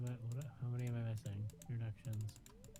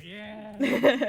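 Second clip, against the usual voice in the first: cheering shout; 9 semitones higher, 16 dB louder than usual. Real, not acted. Cheering against JojaMart.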